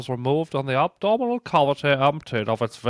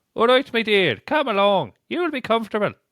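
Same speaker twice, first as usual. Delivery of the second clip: Limerick Irish accent, pitched up; 8 semitones higher than usual. Trying the quoted line again: Limerick Irish accent. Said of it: "it's Limerick as well".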